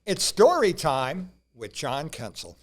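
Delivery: slow, drawn-out show intro; grand slow title announcement; announcer intro. Acted.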